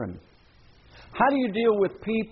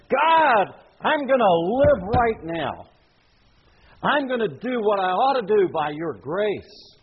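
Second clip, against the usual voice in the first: resolved prayer; 3 semitones higher, slower than usual. Pretend. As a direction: cry out a firm promise to God. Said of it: "have you ever resolved".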